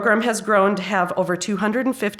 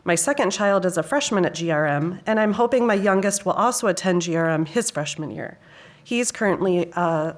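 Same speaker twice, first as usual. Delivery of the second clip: ordinary delivery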